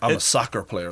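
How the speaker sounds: American accent thrown on. Saying he's a soccer player over in america: american accent. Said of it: "the American accent you throw on that".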